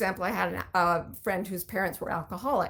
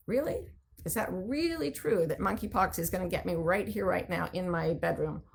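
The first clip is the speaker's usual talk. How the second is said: sceptical questioning. Shown as a demonstration. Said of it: "question the stories that are causing fear".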